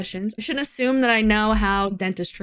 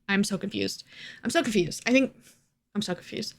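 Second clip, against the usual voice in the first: softer, fading confused mumble; trailing off; 6 dB quieter than usual. Real, not acted. Telling viewers she's so confused, fading softer. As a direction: let it die away into confusion. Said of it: "trailing self talk".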